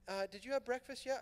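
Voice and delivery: sweetly ask, lightly voicing a young woman; a light imitation of a sweet girl's question; voicing Blanche.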